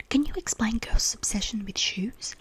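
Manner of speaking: loud, slow stage whisper; forceful, drawn-out whispered question; calling through a door. A narrator's reading. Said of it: "saying from the other side".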